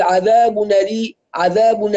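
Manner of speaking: mimicked slurred u linking عذاب to ألي; unclear damma. Teacher mimics some people's reading, unclear damma. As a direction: swallow the u at the end of عذاب. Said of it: "الضمة مش واضحة".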